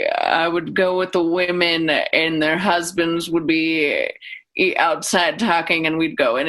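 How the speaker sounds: lightly voiced, measured public radio host. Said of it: "I just started doing that voice".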